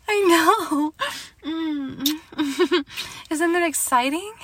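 high, giggly and thrilled; giddy excitement. Acted. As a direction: share the thrill with your partner, voice lifting high. Couple thrilled about starting a family.

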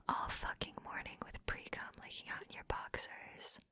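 mocking whisper. Humiliating her partner, mocking whisper.

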